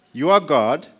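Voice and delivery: single out "You are God" for listeners; emphatic pointing out. Shown as a demonstration. Pointing out second God in verse.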